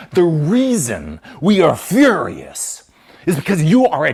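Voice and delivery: loud, high angry tirade; furious rant. Real, not acted. Ranting at Israel about why people are furious, loud and angry. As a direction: let the rage boil over.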